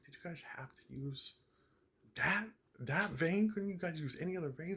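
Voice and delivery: retold grumpy whine at the doctors; grumpy complaint. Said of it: "like, angry".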